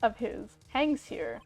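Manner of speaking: lightly voiced theatrical villain, slowing on the speech; a hint of a grand, smug game villain; gloating villain. Villain lording his power over the attorney, hammed-up.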